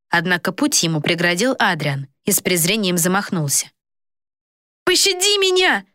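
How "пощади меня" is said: very high, desperate plea; begging. A narrator's reading. Coward begging his brother for mercy, high. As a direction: whimper for mercy. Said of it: "возмолился Флорин".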